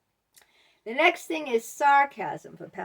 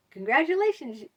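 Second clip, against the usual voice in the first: backhanded compliment; 4 semitones higher, 4 dB louder than usual. Retold or imitated. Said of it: "They said".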